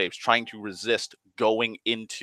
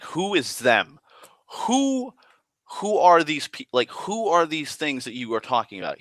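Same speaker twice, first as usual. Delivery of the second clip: alarmed question; 7 semitones higher than usual. Retold or imitated. Confused reply to vague mystic.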